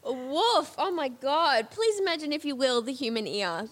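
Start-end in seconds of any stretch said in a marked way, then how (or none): 1.7-3.7 mock solemn quote. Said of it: "That is my favorite sentence of the day".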